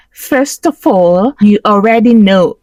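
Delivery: put-on, elongated delivery; affected character voice. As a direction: stretch it out like an affected persona. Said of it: "Can you speak properly?".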